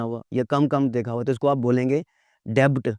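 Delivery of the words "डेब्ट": डेब्ट with the b clearly voiced: "debt" as "debbt"; B sounded. Shown as a demonstration. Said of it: "बी की आवाज़ आएगी".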